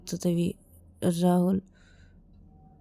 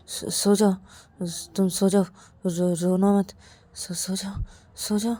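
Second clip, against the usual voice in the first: gentle soothing. Acted. Rahul soothes crying Ravi, gently.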